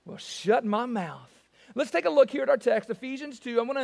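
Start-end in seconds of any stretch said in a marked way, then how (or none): 0.1-1.3 Southern saying. Shown as a demonstration. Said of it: "God has left us speechless".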